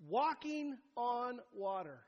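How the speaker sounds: slow, laughing through the words; chuckling at the idea, drawn out; amused repeat. Real, not acted. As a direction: savour the phrase with a laugh.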